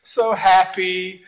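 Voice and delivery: soft, swooning sigh of new love; acted dreamy bliss, hushed and slowing; mock lovestruck. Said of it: "when you first fall in love".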